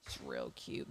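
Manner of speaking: very low, quiet goofy voice; deep low murmur. Pretend. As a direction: drop the voice way down and murmur it.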